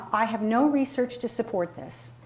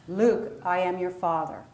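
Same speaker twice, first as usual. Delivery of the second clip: lightly voiced deep villain; Darth Vader; 3 semitones lower than usual. Shown as a demonstration. Coach reminds group of the low placement, light Darth Vader voice. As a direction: settle down into a comfortable low register. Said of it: "to your Darth Vader voice".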